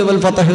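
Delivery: "ഫത്ഹ്" said as fa-ta-h, extra vowel after t; common misreading. Retold or imitated. Teacher imitates how people recite "ഫത്ഹ്", as fa-tah. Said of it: "ആൾക്കാർ ഓതൽ".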